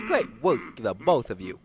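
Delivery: character voice. Acted. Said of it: "I gotta get back into character".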